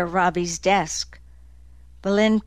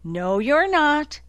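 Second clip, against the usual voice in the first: reassuring; 7 semitones higher than usual. Acted. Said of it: "Nick assured him".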